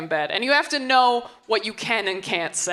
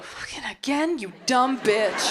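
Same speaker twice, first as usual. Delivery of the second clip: mock self-scolding; 6 semitones higher than usual. Inner voice scolding herself.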